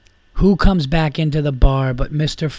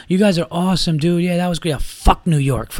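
mock drunk gushing, pitched up at first; drunk complimenting; 4 semitones higher than usual. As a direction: imitate an effusive drunk lightly. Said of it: "like, complimenting".

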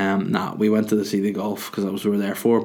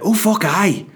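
much higher, louder gushing yes; so enthusiastic; 7 semitones higher, 4 dB louder than usual. Retold or imitated. Sammy asked if working all day, gushing mock enthusiasm. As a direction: ham up a driver thrilled to work. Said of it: "Like, so enthusiastic".

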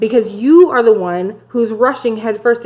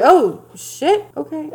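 startled dismay; 6 semitones higher, slower than usual. Retold or imitated. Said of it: "he's like".

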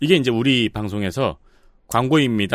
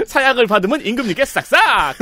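laughing; 9 semitones higher than usual. Acted. Joking parody of slogan.

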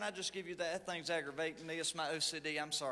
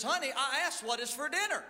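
mock near-shout; 3 semitones higher than usual. Husband calling to wife across kitchen, mild mock shout. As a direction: call across the kitchen, half-hearted. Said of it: "raises his voice nearly to a shout".

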